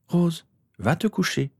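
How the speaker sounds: high, slow motherly order; firm mother. A narrator's reading. Mother sending her daughter to bed, high and firm.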